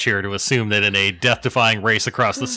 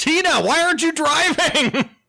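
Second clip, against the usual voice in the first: very high-pitched shouting. In a game, a player's character calling out to Tina, yelling. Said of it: "I'm yelling".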